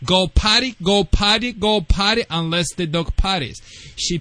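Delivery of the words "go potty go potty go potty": higher, rising go potty repeated to the dog; sing-song prompt to a dog, pitched up; upbeat potty command for a puppy; coaxing command. Shown as a demonstration. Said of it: "you will say".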